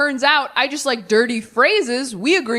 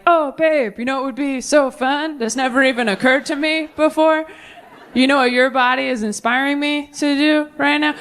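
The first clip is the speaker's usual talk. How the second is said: higher, careful sugary sweet-talk; cute coaxing; 4 semitones higher than usual. Acted. Coaxing a new partner in bed, cutely tiptoeing. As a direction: tiptoe sweetly round an awkward request. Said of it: "do that cute little tap dance".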